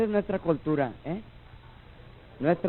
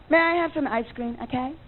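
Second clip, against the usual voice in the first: put-on polite white kid; 6 semitones higher than usual. White kid asks for ice cream.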